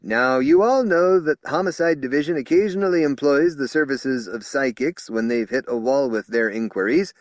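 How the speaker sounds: high and loud, talking over the crowd; strident over murmurs. Acted. Spokesman speaking over indignant murmurs, loud. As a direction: push on over the buzz.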